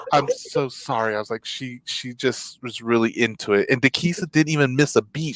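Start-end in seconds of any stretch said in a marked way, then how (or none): 0.1-3.7 sheepish apology. Retold or imitated. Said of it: "And I'm like".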